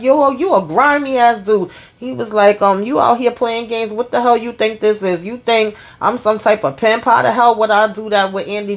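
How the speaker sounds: high, scolding disbelief; mock outraged friend; offended rant. Retold friend rejecting the offer.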